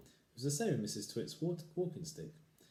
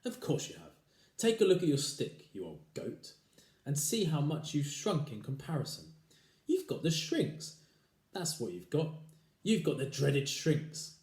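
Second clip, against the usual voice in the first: taunting husband; 5 semitones higher, 5 dB louder than usual. Acted.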